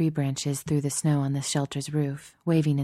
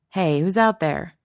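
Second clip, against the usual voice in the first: calling out; 3 semitones higher, 5 dB louder than usual. Acted. Guard calling out.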